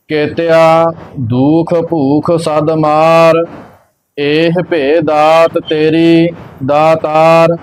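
slow, measured sacred recitation; scripture recitation. Acted. Teacher reciting Gurbani for learners, slow measured chant-like reading. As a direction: recite evenly, drawing out the line endings.

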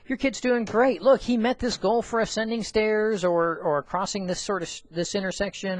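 high, enthusiastic good-news voice; upbeat report. Acted. Acts upbeat report to a parent.

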